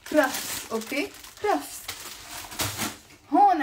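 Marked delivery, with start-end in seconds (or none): 0.0-0.7 "Crafts" as krafs, rolled r, falling; Lebanese pronunciation. Shown as a demonstration. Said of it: "we pronounce it crafts". 1.4-1.8 "Crafts" higher, as krafs with rolled r; Lebanese pronunciation. Shown as a demonstration. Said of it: "we pronounce it crafts".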